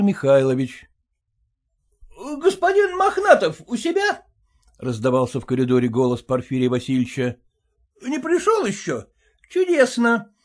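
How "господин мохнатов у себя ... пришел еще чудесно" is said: high voice calling down the corridor; voiced husband, sarcastic glee. A narrator's reading. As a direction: announce yourself, falsely cheerful.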